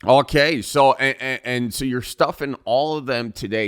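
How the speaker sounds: lightly put-on folksy broadcaster; easygoing Midwest radio interviewer; Northwoods radio host. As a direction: chat like a small-town radio host. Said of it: "I'm the host of Northwoods Radio".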